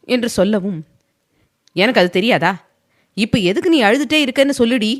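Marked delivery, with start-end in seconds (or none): 1.8-4.9 higher, fast, irritated demand; sharp angry burst, quickened; flaring up. Acted. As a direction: bite her head off. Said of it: "எரிந்து விழுந்தான்".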